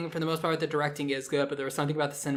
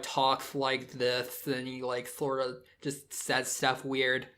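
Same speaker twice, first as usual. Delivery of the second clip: slack jaw voice; slower than usual. Shown as a demonstration. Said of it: "He sounds, like, dopey".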